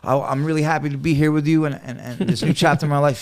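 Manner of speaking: high-pitched imitation of earnest pleading; eager newcomer plea. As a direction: play the hopeful new guy pleading his case. Acts out his eager newcomer self.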